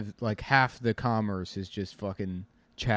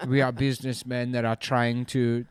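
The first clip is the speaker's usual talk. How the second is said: raised, mock-dignified French accent with laughs breaking in; 4 semitones higher, 5 dB louder than usual. Slavers insisting they are businessmen, mock French accent. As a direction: plead respectability in a put-on French accent. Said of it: "With French people like".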